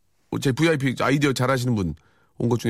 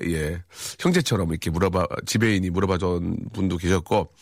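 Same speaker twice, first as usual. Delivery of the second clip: usual speaking voice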